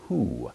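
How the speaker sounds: "who" begun with an audible H; rough breathing. Shown as a demonstration. Teacher showing rough breathing, "who" starting on an H sound. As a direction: sound out "who" with H before the vowel. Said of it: "it's pronounced with an H sound".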